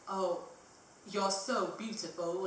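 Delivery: slow, tipsy bad British accent. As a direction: imitate a drunk Brit, drawn out. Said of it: "my really bad British accent".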